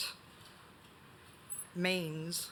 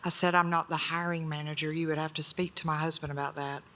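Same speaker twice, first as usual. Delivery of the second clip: speaking up. Real, not acted. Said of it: "Could you speak up, please?".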